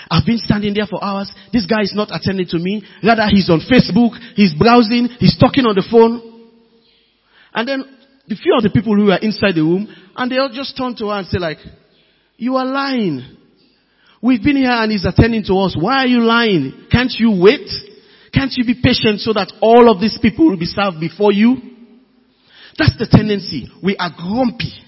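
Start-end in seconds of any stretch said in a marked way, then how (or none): 0.1-6.2 mock venting, building louder through the list; retold complaint, piling up with growing force; impatient outburst. Waiting lady complains about the clerk, mock outburst. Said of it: "she just let it out". 12.4-21.6 retold rebuke, exasperated questions; mock scolding. People in the room scold the impatient lady, mock indignation.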